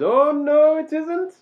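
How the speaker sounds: put-on a high, loud pirate-accent quote, half-held back; slipping into a pirate accent, then catching himself; near pirate accent. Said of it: "nearly did the accent there".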